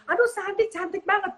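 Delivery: high, sarcastic praise; mock sarcastic compliment. Shown as a demonstration. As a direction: say it like a taunt. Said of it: "Itu kan ngajak berantem".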